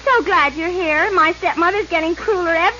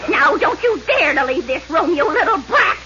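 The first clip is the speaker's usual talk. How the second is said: mean stepmother voice. Acted. Cruel stepmother voiced in parody.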